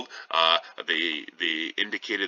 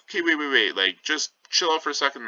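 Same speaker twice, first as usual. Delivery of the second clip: flustered Romeo; 6 semitones higher, faster than usual. Retold or imitated. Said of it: "Romeo is like".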